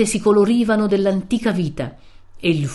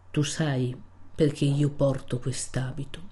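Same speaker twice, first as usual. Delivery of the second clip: low, slow voice; 3 semitones lower, 6 dB quieter than usual. Acted. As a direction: lower and softer, somber and slow. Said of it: "con voce cupa e lenta". (voce cupa e lenta)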